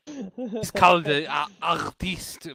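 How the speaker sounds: slow, hammed-up French accent. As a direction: draw it out in a fake French accent. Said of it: "You can't do a French accent".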